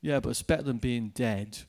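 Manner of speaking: low, flat, deadpan gloom; a hint of a grim stranger; gloomy retort. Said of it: "he looked at me like this and he goes".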